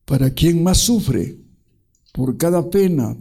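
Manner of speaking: a preacher voicing Jesus with fervour; solemn reading. Preacher reading Jesus's words to the congregation, fervently.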